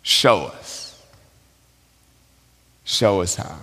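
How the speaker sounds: soft, low repeated plea; quiet prayer. Retold or imitated. Preacher repeats Betsy's prayer to the congregation, softly. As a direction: pray it gently under the breath. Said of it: "is praying".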